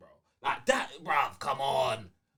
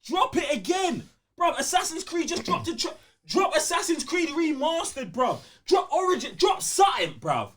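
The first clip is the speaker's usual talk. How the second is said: exasperated demand; 6 semitones higher than usual. Real, not acted. Demanding Sony re-release games.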